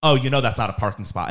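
unbothered and matter-of-fact; calm retelling. Retold or imitated. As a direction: replay it as a calm, casual observation. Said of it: "calmly, I said".

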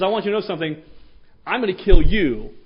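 loud fierce warning; fierce threat. Retold or imitated. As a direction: warn the giant fiercely. David's paraphrased threat.

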